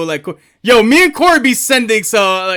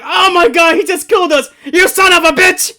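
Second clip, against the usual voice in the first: higher, hammed-up commentator outrage; mock JR outrage; 7 semitones higher than usual. Gamer quoting JR when a monster wipes them. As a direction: yell it like JR losing it. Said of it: "monster knockers are like".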